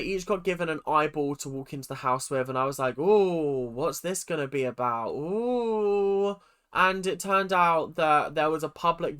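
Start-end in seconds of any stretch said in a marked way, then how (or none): 3.0-6.4 drawn-out, mock-intrigued "ooh", rising higher at the end. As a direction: act out curiosity with long, swooping oohs. Acting out reaction to the twist.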